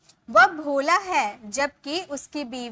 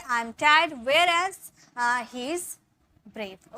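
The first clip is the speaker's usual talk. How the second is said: slow dictation; 4 dB louder, much slower than usual. Shown as a demonstration. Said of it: "मतलब मैं डरपोक हूँ".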